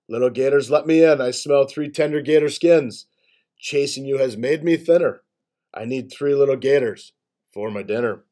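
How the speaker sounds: lightly voiced menacing boar; a hint of a hungry, threatening boar; terrible boar voice. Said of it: "Big Bottomed Boar's terrible voice".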